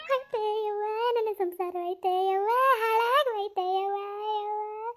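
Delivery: keen over the ruined home; wailing lament. Acted. Wife wails to her friend about her broken marriage, sobbing.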